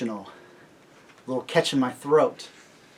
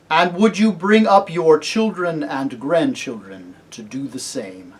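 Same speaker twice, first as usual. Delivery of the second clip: louder, stately questioning; solemn kingly lion; 2 semitones higher, 6 dB louder than usual. Acted. Aslan asking about children and grandchildren, solemn. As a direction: ask it gravely, with authority.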